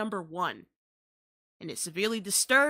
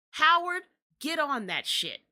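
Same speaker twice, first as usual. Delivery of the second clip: calling out to Howard; 5 semitones higher, 3 dB louder than usual. Acted. Calling out to universities.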